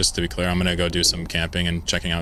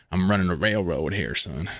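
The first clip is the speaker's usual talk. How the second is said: put-on old prospector. Shown as a demonstration. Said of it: "old-timey prospector stereotype accent when you do Southern".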